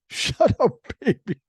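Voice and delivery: high-pitched, punchy mock scolding; imitated waitress. Waitress bending over a noisy toddler, high imitated scolding. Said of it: "and she says".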